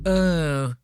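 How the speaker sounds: whiny mock voice of an upset bystander; mocking the guitarist. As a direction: act out the guitarist's prissy disapproval. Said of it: "He's sitting there like".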